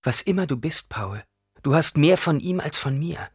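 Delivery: gentle. A narrator's reading. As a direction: answer your son gently. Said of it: "Jessica erwiderte sanft".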